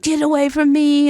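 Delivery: high whiny cartoon kid yell; Eric Cartman voice. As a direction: whine it like a bratty cartoon kid. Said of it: "shouting out, like, dumb Eric Cartman".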